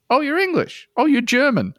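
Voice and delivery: high-pitched mock guessing; mocking high-voiced impression; imitating Americans. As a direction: chirp it high like a clueless stranger. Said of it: "they were like".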